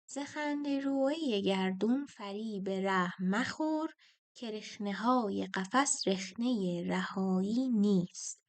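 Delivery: slow, measured reading of the verse; poem recital. Shown as a demonstration. Teacher reciting a Persian verse to students, slow and measured. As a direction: recite the line slowly like classical poetry. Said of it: "اول بیت رو باید بخونیم".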